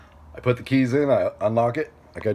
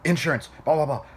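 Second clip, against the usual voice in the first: higher-pitched mock fussing of a clerk; ballistic; 6 semitones higher than usual. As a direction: imitate a clerk overreacting, rattling off procedure.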